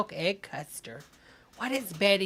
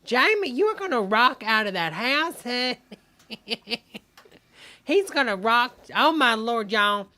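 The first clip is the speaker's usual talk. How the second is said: cheering; 4 semitones higher, 6 dB louder than usual. Real, not acted. Cheering on the video.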